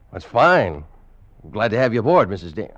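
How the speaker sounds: loud, overly hearty welcome covering shock; forced cheerfulness. Acted. First mate greets dead captain's widow, forced hearty. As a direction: bluster to hide surprise.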